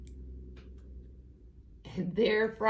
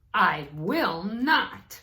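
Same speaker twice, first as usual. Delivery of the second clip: stubborn refusal; 2 semitones higher, 5 dB louder, slower than usual. Acted. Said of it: "said Toad".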